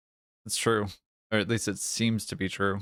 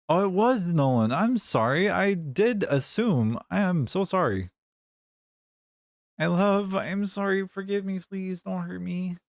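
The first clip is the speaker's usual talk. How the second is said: mock panicked apology; 9 semitones higher than usual. Panicked apology to viewer Nolan.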